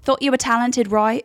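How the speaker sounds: mock-polite dig with a tag question; petty British co-host. Co-host shading a losing contestant, petty. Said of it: "that is the biggest shade".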